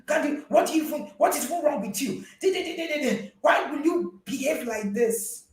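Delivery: high, mocking scold of a child; scolding parent. Parent mocking a misbehaving child, high and scornful. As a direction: act out a condescending parent nagging. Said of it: "The other day, you even went to".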